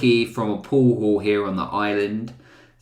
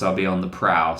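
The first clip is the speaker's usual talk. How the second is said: ordinary talk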